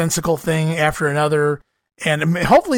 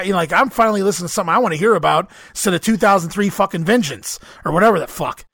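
voice giving out. Real, not acted. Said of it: "I'm losing my voice a little bit".

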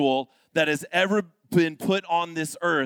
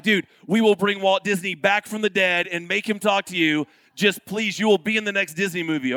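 pleading staff; 3 semitones higher, 5 dB louder than usual. Retold or imitated. Staff begging father, retold.

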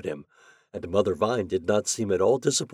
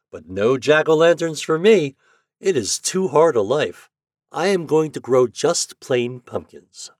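lightly voiced vine, raised in pitch; neighbor vine; 6 semitones higher, 6 dB louder than usual. A narrator's reading. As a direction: answer back emphatically as a storybook neighbor.

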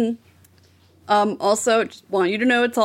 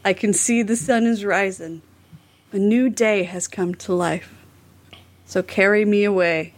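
mildly dramatic recital, phrase by phrase; dramatic lyric reading. Shown as a demonstration. Host reads the repeated chorus for co-hosts, mildly dramatic. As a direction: recite song words with deliberate pauses. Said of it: "dramatically read this".

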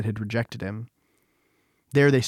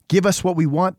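higher, louder crowd demand; narrated mob's raised demand; 6 semitones higher, 5 dB louder than usual. A narrator's reading. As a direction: insist forcefully, as a hostile crowd. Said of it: "they demanded".

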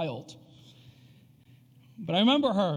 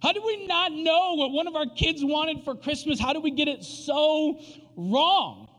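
baffled disbelief; 8 semitones higher than usual. Retold or imitated. Dad reliving his gift blunder, baffled disbelief. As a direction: exclaim it in exasperated disbelief, stretching the key words. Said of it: "I just remember being like".

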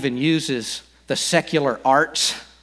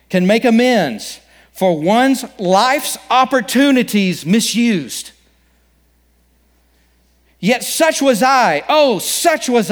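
slow ghostly lament, a little louder; 6 semitones higher, 4 dB louder, slower than usual. Acted. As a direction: mourn it like a regretful ghost. First reading of passage.

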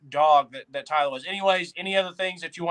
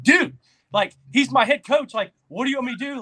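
exasperated retort; 8 semitones higher, 5 dB louder, faster than usual. Retold or imitated. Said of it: "And you were finally like".

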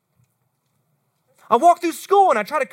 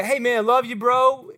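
offhand, even-toned buddy talk; light, throwaway bro affection; casual. Acted. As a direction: toss it off like a passing remark to a pal. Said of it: "It's not just a, a, like a".

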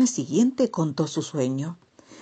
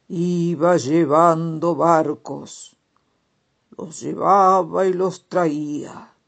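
slow, louder dreamy toad; storybook toad voice; 5 dB louder, slower than usual. Acted. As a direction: tell the dream slowly, savoring it. Toad recounts river dream.

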